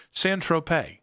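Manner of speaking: Saint Tropez ending in tro-pay, no z; crisp Saint Tropez with silent z; correct model. Shown as a demonstration. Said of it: "How did I say it twice".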